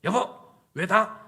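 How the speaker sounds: acted accusing question, climbing high; upset wife. Wife to husband who ignored her, upset high reproach. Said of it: "아내가 뭐라고 그럴 것 같아요? 남편한테".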